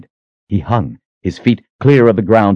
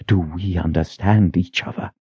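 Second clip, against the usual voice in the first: quiet menace; 5 dB quieter than usual. Acted. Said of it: "her expression twisted with menace".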